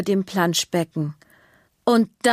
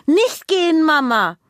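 put-on higher, louder child's plea; loud pleading; 8 semitones higher, 4 dB louder than usual. Girl loudly begging her mother not to leave. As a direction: cry out to stop mum leaving. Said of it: "muss Juna laut werden".

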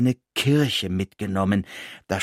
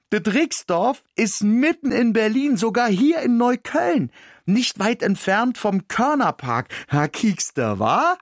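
excited mouse; 11 semitones higher than usual. A narrator's reading. Mouse boasts in Berlin slang.

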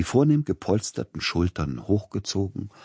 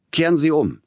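sharp high shout to the coachman; 11 semitones higher, 7 dB louder than usual. Acted. Tchaikovsky shouting at the coachman to turn back, loud shout. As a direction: yell it out, much higher and louder. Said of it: "schrie er dem Kutscher zu".

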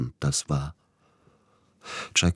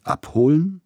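high, loud outraged query; bristling disbelief; indignant question; 13 semitones higher, 5 dB louder than usual. Acted. Tschaikowski fährt den Agenten ungläubig an, empört. Tschaikowski aufgebracht über Abholung.

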